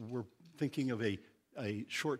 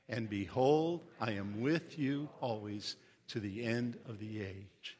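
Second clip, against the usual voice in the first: scripture reading. Acted. Pastor leading the congregation to read together, scripture reading. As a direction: read it out for everyone to follow.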